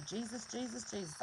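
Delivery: soft repeated name, falling away; quiet invocation. Shown as a demonstration. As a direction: murmur it like a quick protective prayer. Murmured invocation against bad words.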